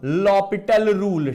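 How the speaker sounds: L'Hopital said as lopital without the s; L'Hopital spoken slowly as lo-pi-tal; correct pronunciation. Shown as a demonstration. Teacher repeating the right name for students, careful lopital. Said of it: "इसको बोलते हैं बेटा".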